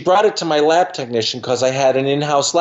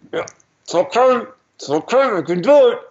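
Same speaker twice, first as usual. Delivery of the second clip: higher, dreamy voice of a hypnotized patient chanting to herself; patient reassuring herself; 7 semitones higher than usual. Retold or imitated. Hypnotized dental patient telling herself she can do it, in a higher, dreamy voice.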